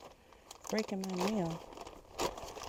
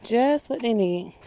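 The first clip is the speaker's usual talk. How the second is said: slow and emphatic; 3 semitones higher, 8 dB louder, slower than usual. Real, not acted. Praising compost for plants.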